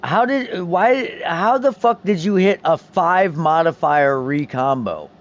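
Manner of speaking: high-pitched incredulous outburst; disbelief. Real, not acted. Gamer stunned at friend's lucky five-mod recombine, high disbelief. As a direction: blurt it out, stunned by the luck.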